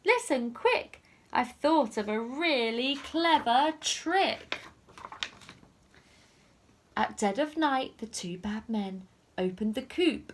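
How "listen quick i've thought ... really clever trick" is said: eager ladybird. Acted. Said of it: "the ladybird said".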